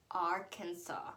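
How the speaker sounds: Arkansas as "AR-kan-saw", final s silent; correct state name. Shown as a demonstration. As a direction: end Arkansas on an open "saw". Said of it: "It's not Arkansas".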